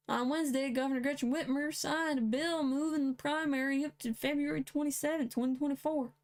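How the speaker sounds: reading the headline in a light country accent. Real, not acted. Reading Michigan news aloud in a mild country accent. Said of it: "Don't know why I got the country accent".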